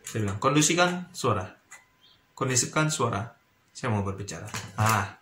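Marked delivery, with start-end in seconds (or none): 0.4-4.4 firm command on "Kondisikan suara", pausing before the repeat; firm emphasis. Shown as a demonstration. Lecturer quieting students before speaking, firm emphasis. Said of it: "seperti itulah saya ngomong".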